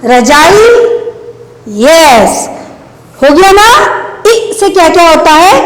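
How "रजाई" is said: रजाई with the final ई pressed and held; ई पर ज़ोर. Shown as a demonstration. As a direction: lean into the long ई ending of रजाई. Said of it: "जोर लगा रहे हैं ना". (रजाई की ई खींचकर, ज़ोर से)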